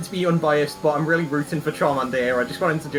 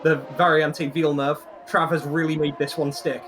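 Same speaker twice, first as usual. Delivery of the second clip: motorsport commentator. Acted. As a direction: call the overtake as it happens. Live race commentary.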